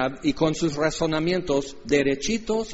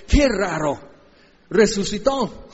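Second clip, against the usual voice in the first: mock puzzlement; 4 semitones higher, slower than usual. Mocking disciples' puzzlement.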